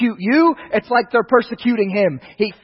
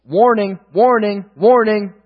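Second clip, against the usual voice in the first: warning said three times, each firmer; repeated warning, building; slower than usual. Shown as a demonstration. Preacher stressing the rebuke signal, building emphasis. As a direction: hammer the word warning, growing stronger. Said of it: "double name equals".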